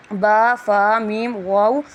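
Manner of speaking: "با، فا، میم، واو" separate and drawn out; lip letters. Shown as a demonstration. Teacher demonstrates the four lip letters, distinct long sounds. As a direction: articulate "با، فا، میم، واو" one by one with the lips. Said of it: "ہونٹوں سے صرف چار حروف".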